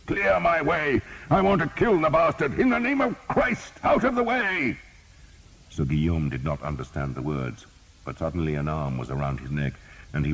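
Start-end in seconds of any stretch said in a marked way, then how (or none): 0.1-4.8 high, loud battle bellow; huge shouting voice. A narrator's reading. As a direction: clear the way with your voice. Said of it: "a huge voice was shouting".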